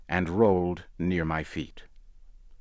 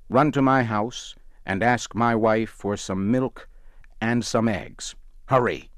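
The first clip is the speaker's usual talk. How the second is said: urgent call; 4 semitones higher, 4 dB louder than usual. Acted. Doctor urgently sends driver off.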